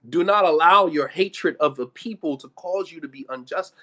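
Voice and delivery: loud, weighty admonition; emphatic repetition. Real, not acted. Preacher quoting Quran to listeners, loud and emphatic. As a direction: press the command home loudly.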